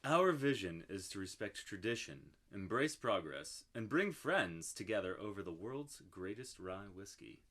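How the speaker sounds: low, soft, sultry label read; sexy voice. Pretend. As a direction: read it like a seductive ad. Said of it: "We gotta do the sexy voice".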